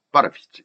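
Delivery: "but if it's" run together as "ba-re-pits"; linked pronunciation. Shown as a demonstration. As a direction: link "but if it's" into one unit. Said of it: "이렇게 나오죠".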